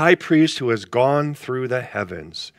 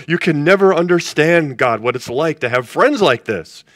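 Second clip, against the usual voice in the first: laughing complaint; 4 semitones higher, 5 dB louder than usual. Retold or imitated.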